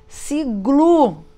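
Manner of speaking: sigle blended slowly, trying the sound. Shown as a demonstration. Teacher testing whether sigle makes a word, trying it out. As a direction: try out sigle as a test word. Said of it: "Também não formou".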